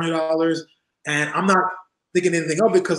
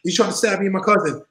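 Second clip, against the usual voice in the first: higher-pitched, hurried self-defence; retold urgent protest; 5 semitones higher than usual. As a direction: plead your case to calm him down. Retold plea to yelling Hardbody.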